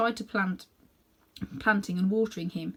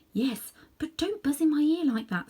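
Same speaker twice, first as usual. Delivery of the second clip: put-on girl's voice; 7 semitones higher than usual. Polly protests.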